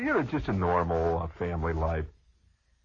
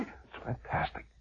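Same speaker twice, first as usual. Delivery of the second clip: plain reading voice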